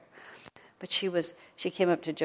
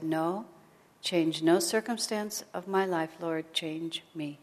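surrendered prayer; slower than usual. Retold or imitated. Gyanamata praying to the Lord, slow and surrendered. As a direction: pray it slowly, giving in. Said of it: "And then she said".

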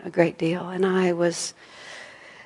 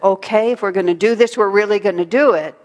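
louder, determined vow; firm, rising resolve to act; forceful resolve; 2 semitones higher, 5 dB louder than usual. Retold or imitated. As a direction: commit with force, we're doing this. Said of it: "the force of".

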